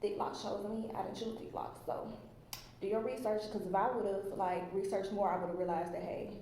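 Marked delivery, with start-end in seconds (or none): 1.0-2.1 whispered confession. Acted. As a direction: drop to a whisper. Confession about lock size.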